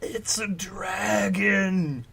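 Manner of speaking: slow secret whisper. Acted. Shogrid confiding to Hunter, slow whisper. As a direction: breathe it like a secret. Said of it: "he whispered".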